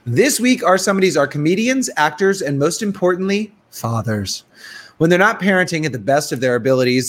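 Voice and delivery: smooth, polished podcast-intro read; polished host voice. Acted. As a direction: announce the guests like a radio host. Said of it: "He put on such a polished voice for it".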